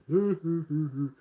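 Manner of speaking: goofy put-on laugh; mock dopey chuckle. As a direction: imitate a simple kid's chuckle. Mocking a simple kid.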